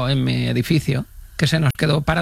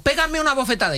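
mock panicked plea; 9 semitones higher than usual. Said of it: "Me dijo".

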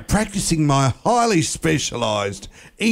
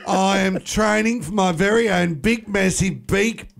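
giggling through it; stumbling, laughing through the words; 3 semitones higher than usual. Real, not acted. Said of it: "You can't even say it".

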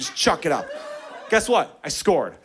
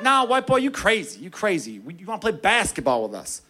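mock street voice, higher; lightly voiced teammate; teammate's voice; 4 semitones higher than usual. Teasing the white boy, a light mock street voice. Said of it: "He's like".

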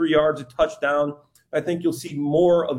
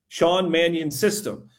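slow, deliberate "Sean Mannion system"; careful tongue twister; slower than usual. Shown as a demonstration. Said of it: "Say that ten times fast".

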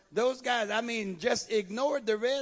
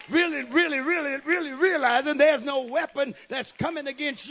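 loud, driving call to praise; fervent preaching; 4 dB louder than usual. Real, not acted. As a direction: preach at full force to stir the congregation.

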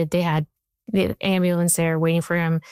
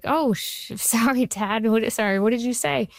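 flustered, higher, with a nervous laugh; startled apology; 4 semitones higher than usual. Retold or imitated. Startled by her dad in the hospital room, flustered higher apology. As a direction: caught off guard, scrambling to apologize.

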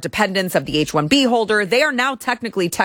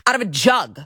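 higher, incredulous inner questions; retold bafflement; 4 semitones higher than usual. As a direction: replay your own shock at the milk. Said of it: "And I thought".

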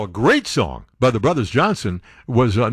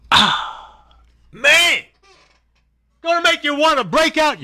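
sudden leap to a high-pitched DJ cry; hammed-up high-pitched excitement; high mock outburst; 13 semitones higher, slower than usual. Sudden jump from low DJ bit.

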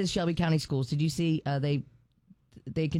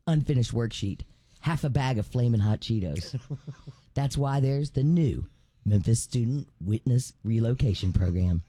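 parody ad voice; 2 semitones lower than usual. Acted. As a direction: read it like a TV ad. Reads parody ad aloud.

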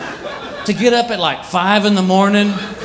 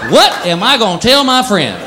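indignant cat voice; 5 semitones higher than usual. Retold or imitated. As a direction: play the wounded cat, dragging it out. Neutered cat complaining.

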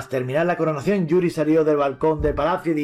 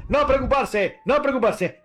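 reassuring king; 8 semitones higher than usual. Acted. King calms the crowd.

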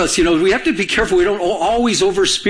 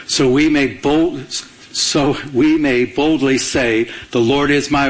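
slow, low, measured verse; scripture reading; 3 semitones lower, slower than usual. Acted. Pastor reads Isaiah's promise to the congregation, scripture reading. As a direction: read it out deliberately.

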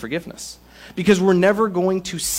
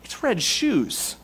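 exasperated listener; 6 semitones higher than usual. Retold or imitated. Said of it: "'Cause you're gonna say".

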